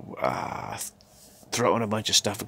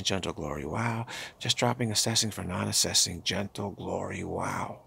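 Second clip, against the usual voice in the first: guided mantra. Acted. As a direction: chant it gently like a meditation guide, letting every wow drop away. Leads a repeated mantra practice.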